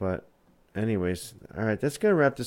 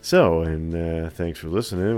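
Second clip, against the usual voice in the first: lightly smooth-talking sign-off plug; a hint of porn-star sultriness in the plug. Shown as a demonstration. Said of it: "You sound so, like, porn star-y".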